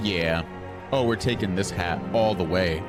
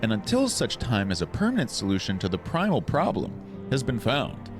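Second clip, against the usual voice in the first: high, regal queen voice; Queen Minfilia voice; 4 semitones higher than usual. Acted. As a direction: speak as a gracious queen. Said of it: "my Queen Minfilia voice".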